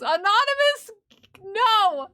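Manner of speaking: loud, high-pitched telling-off; mock scolding. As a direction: call them out loudly, voice jumping up. Scolding a chat member.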